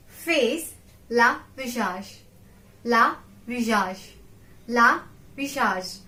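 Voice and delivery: la visage said slowly and clearly, each sound crisp; slow model pronunciation. Shown as a demonstration. Teacher modelling la visage for students to repeat. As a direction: model la visage for learners to copy. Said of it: "Concentrate on spelling and pronunciation".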